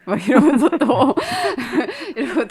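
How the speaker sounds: bursting into laughter; laughing. Real, not acted. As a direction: laugh through the words. Laughing at own memory.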